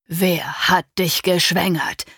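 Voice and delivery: slow, harsh accusing question; snapping at her. Acted. Father snapping at his daughter, accusing. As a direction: bite each word. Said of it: "fuhr Vater mich an".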